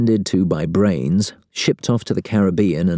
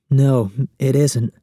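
sniffling; 7 semitones higher, slower than usual. A narrator's reading. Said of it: "she sniffles quietly".

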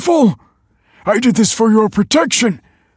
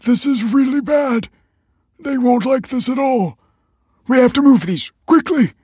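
high, loud, mounting alarm; panicked; 7 dB louder than usual. A narrator's reading. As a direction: urge them on in a panic. Father panics over undelivered offerings.

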